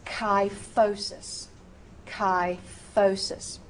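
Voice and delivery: "Kyphosis" slowly as "kai-FOH-sis"; precise K sound. Shown as a demonstration. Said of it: "say the K".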